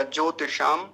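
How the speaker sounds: ज्योतिषाम with a quick "ti"; short ti. Shown as a demonstration. Teacher explaining the short matra, quick ti in ज्योतिषाम. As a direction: clip the ति in ज्योतिषाम, hold ज्यो. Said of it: "तो जल्दी बोला जाएगा".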